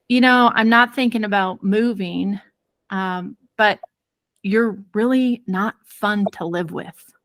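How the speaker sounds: halting, with careful pauses between phrases; measured delivery, weighing each phrase before going on; choosing words carefully. Retold or imitated. Husband carefully answering his wife, choosing words with pauses. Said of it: "choosing his words so carefully".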